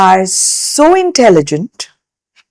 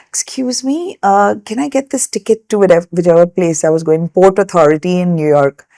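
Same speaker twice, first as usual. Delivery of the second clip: put-on shy young self; faster than usual. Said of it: "very simple Indian girl".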